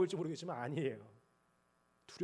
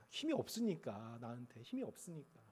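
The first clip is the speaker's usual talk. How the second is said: fading confession; 6 semitones lower, 10 dB quieter than usual. Real, not acted. Softening confession.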